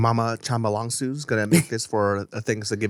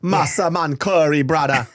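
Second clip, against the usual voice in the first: slow, put-on Jamaican lilt; mock Jamaican accent; 3 semitones higher, slower than usual. Co-host naming the curry dish, mock Jamaican accent. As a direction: savour each syllable in a playful Jamaican accent. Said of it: "I don't know why it sounds Jamaican".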